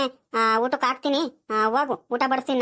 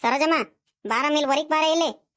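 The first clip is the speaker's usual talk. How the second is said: lightly raised summoning call, name lifted at the end; 2 semitones higher than usual. Acted. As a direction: call someone out from inside the house. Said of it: "ಸರೋಜಮ್ಮನ್ ಕೂಗ್ತೀನಿ". (ಒಳಗಿರುವವರನ್ನು ಕೂಗಿ ಕರೆಯುವ ದನಿ)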